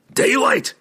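high-pitched dwarf's outcry; anguished cry. A narrator's reading. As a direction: cry out between relief and lament. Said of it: "he cried".

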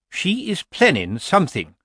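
high-pitched, mildly dark suspicion. A narrator's reading. Lettice warning Nanny about a plan, darkly. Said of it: "said Lettice darkly".

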